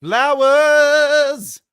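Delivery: very high loud squeal; high squeaky character voice. Pretend. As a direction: squeal the word. Character voice burst.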